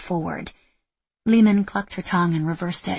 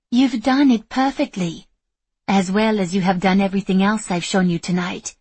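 smiling voice; 2 semitones higher, 5 dB louder than usual. Acted. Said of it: "a smile in her voice".

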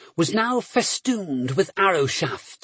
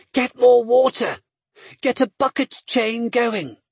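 shouting orders; 5 semitones higher than usual. Acted. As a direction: call it out over the chaos. Calling orders in a fire.

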